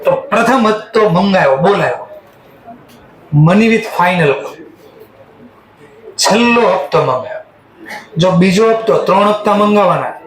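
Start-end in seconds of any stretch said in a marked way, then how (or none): 3.3-4.6 each word spelled out very slowly for writing down; slow, deliberate dictation to the class. Shown as a demonstration. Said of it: "dictating a note to students".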